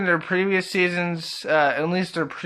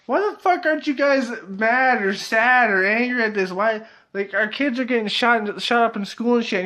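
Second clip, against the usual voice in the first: freaking-out mom; 5 semitones higher than usual. Retold or imitated. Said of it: "Sharon's just like".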